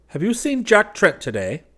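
high, loud anxious cry. Acted. West anxiously cries out to Braith, loud and high. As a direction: call it out in alarm. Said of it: "that the latter cried".

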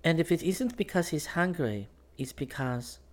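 high nervous voice sinking at the end; faltering. A narrator's reading. Girl fretting to Jack about the dog, voice faltering. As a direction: start high, then falter and break off. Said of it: "Her voice faltered".

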